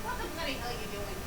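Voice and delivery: faint, distant voice; off-mic exchange. Real, not acted. Housemate and reader talking off mic, faint. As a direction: talk away from the mic.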